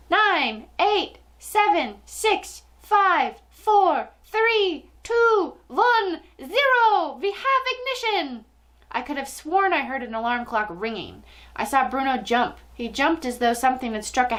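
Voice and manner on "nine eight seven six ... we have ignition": high, slow, drawn-out witch voice; witch's countdown. A narrator's reading. Witch counting down Bruno's transformation, triumphant cry. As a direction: build to a shrieked launch.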